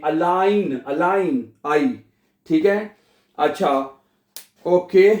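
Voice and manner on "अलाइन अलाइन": अलाइन with the ai sound stressed. Shown as a demonstration. Teacher drilling the ai sound in allein. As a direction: say अलाइन as a-LAIN. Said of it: "आई पढ़ा हमने".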